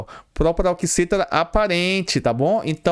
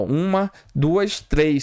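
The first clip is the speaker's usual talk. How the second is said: counting syllables; slower than usual. Shown as a demonstration. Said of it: "eu tenho três sílabas".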